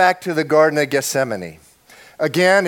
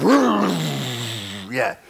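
mock warrior growl; 2 semitones lower than usual. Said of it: "like a sword".

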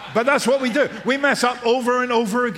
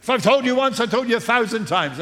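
exasperated mother; 3 semitones higher than usual. Retold or imitated. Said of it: "things that your mother used to say".

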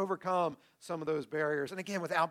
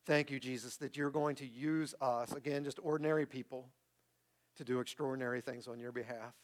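sincere, measured public prayer; 2 semitones lower, 4 dB quieter than usual. Real, not acted. Pastor closing the sermon in prayer, sincere and measured. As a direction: lead the congregation gently in prayer.

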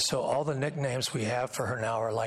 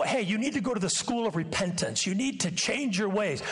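lightly voiced scolding father, higher; mock stern father; 8 semitones higher than usual. Preacher mimicking a stern father's lecture, mock scolding.

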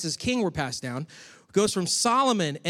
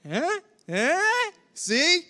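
high, knowing "eh?" nudges; mock-smug told-you-so; Matthew's smug nudge; 11 semitones higher, much slower than usual. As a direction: poke the listener, high and teasing. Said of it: "it's almost like he's like".

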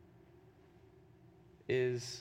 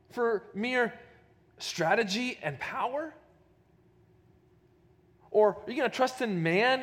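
higher, louder sneering taunt of an enemy envoy; mocking taunt; 8 semitones higher, 3 dB louder than usual. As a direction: jeer at them as the Assyrian envoy. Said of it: "Rabshakeh is mocking the Israelites".

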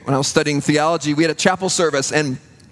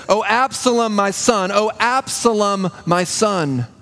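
grieving lament; 3 semitones higher, slower than usual. Retold or imitated. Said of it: "he says".

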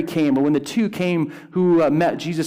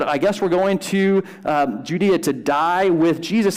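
committed tone. Retold or imitated. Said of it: "And in that tone, you hear a sense of commitment".

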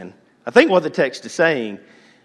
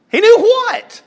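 much higher, loud "knew what?"; exaggerated high puzzled question; 12 dB louder than usual. Shown as a demonstration. Preacher voicing the congregation's confusion, high and loud. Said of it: "repeats higher".

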